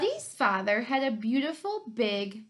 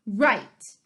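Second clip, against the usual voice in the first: confident Buddy; 7 dB louder than usual. Acted. Buddy cheerfully mishearing.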